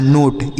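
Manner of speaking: नोट with a closed "oh" vowel; long rounded o in नोट; wrong vowel in नोट. Shown as a demonstration. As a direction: say नोट like "note". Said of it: "ऐसे नहीं पढ़ना है".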